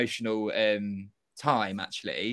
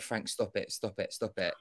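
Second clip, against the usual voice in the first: softer, lower, urgent hush; hushed telling-off to a friend mid-complaint; hushed plea; 4 semitones lower, 5 dB quieter than usual. Retold or imitated. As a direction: quietly shush a friend who's causing a scene. Hushing Frank's complaint.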